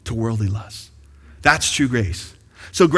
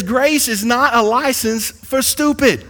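Texas preacher drawl on the punchline; a touch of Texas twang, quoting the pastor; light Texas drawl, quoting the pastor; 8 semitones higher, 4 dB louder, slower than usual. Retold or imitated. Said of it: "That's how he talks".

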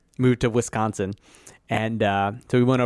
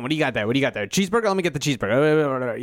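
street hustler; much faster than usual. Retold or imitated. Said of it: "like, hustler guy".

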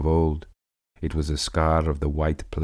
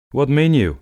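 much higher, louder alarmed cry; startled cry; 10 semitones higher, 7 dB louder than usual. Acted. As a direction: cry out in shock. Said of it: "I cried".

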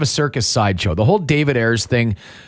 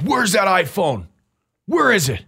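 dad voice; 6 semitones higher than usual. Retold or imitated. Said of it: "dad voice was".

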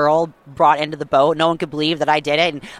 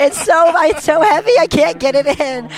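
straining effort; 12 semitones higher, 4 dB louder than usual. Retold or imitated. Straining to land the fish.

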